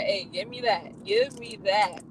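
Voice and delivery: high, slow and excited, grabbing for it; eager order. Pretend. Pretending to order the drink at Starbucks, eager. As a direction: demand it with glee.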